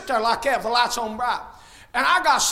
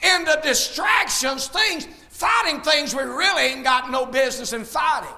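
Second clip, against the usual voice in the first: fiery preaching. Acted. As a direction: preach it out to the whole church. Preaching to the congregation.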